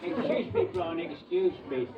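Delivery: a hint of a fussy polite voice; lightly mimicked fussy assistant; imitating his manner. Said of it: "he always talked like that".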